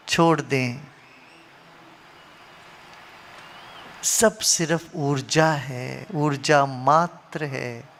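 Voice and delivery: measured meditation guidance with long pauses; guided meditation. Acted. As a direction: lead them inward, phrase by phrase, letting each settle. Leads an eyes-closed reflection.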